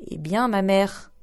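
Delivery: slow, surly answer; slow sulky daughter's retort; sullen reply. Acted. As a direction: throw it back sullenly. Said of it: "lui répondit la brutale".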